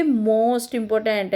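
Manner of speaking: most important said slowly and clearly; correct form. Shown as a demonstration. Teacher to students, correct form said slowly. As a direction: give the right form deliberately. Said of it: "नहीं बोलोगे, आप उसको बोलोगे".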